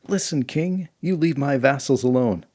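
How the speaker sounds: angry queen. Acted. Queen warning the king off her vassals, indignant. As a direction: lay down the law to the king.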